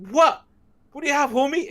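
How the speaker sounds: high, loud tough-guy challenge; imitating Joey. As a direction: get in his face like Joey. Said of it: "He's like".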